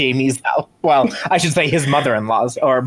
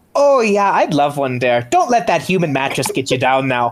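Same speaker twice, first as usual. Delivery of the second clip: exaggerated, swooping Swedish accent. Voicing a neighbour accepting a cookie, accent sounding Swedish. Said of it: "Wait, are you from Sweden?".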